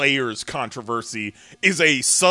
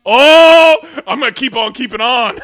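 laughing; 9 semitones higher, 12 dB louder than usual. Real, not acted. Joking catchphrase reply, laughing.

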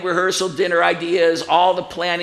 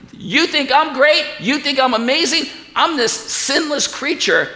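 acted angel's challenge; 8 semitones higher than usual. Voices angel's rhetorical challenge.

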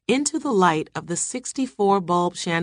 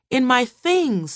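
high, distressed cry; screaming; 8 semitones higher, 4 dB louder than usual. A narrator's reading. Terrified wife tells what she saw, high distressed cry. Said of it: "she was screaming again".

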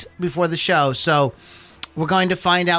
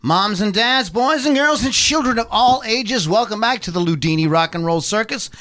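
ringmaster. Acted. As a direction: roll up the crowd like a circus host. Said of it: "I am your ring master".

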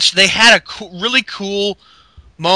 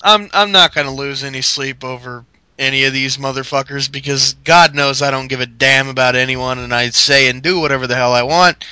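mock Orton; 4 semitones lower than usual. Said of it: "he's like".

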